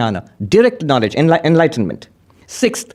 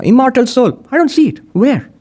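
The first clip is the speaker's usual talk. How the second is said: baffled cry; 9 semitones higher than usual. Acted. Voicing seeker, pitch jump.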